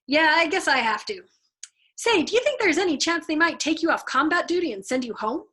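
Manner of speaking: nervous airman begging to get out too; a hint of a worried pilot pleading; Havermeyer pleading. A narrator's reading. Havermeyer asks eagerly.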